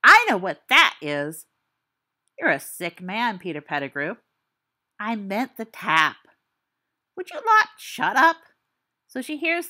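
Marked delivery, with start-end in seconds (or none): 0.0-1.4 suggestive leer. Acted. Lewd joke at a pause. 7.2-8.4 much louder and higher, fed up; loud exasperated yell. Acted. Storyteller yelling at friends to stop interrupting, loud and fed up.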